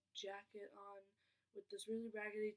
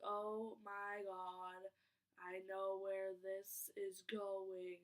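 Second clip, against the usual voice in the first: knowing dread; 3 semitones lower, much slower than usual. Retold or imitated. Realizing the stranger's pitch.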